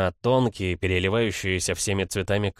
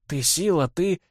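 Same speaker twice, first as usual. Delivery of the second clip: put-on higher, heartfelt words to the boy; взволнованно; 10 semitones higher than usual. A narrator's reading. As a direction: say it high, lost for words. Girl embracing him, lost for words. (взволнованно, высоким голосом)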